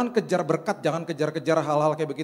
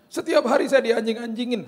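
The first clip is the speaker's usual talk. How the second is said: higher-pitched mock-tearful complaint; imitated crying; 5 semitones higher, 4 dB louder than usual. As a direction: act out a driver's distressed complaint. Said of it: "Tiba-tiba dia nangis". (menirukan keluhan sambil menangis)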